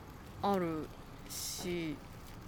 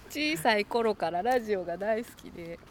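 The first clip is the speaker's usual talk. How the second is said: reading a listener letter in Kansai dialect; light Kansai lilt on the letter; Kansai accent. Pretend. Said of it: "関西弁で読んでくれますか".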